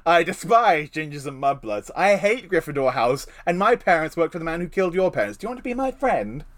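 hammed-up snobby schoolboy intro; mock Draco voice. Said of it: "that line works as a joke".

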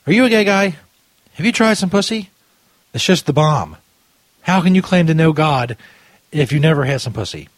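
mock a British preacher, badly; bad British accent. Host mocking clip preacher, in a bad British accent. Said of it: "Is that my British accent?".

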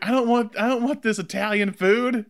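high, grumpy put-on father; Italian dad voice. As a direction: complain like a cranky old-world dad. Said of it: "He's like".

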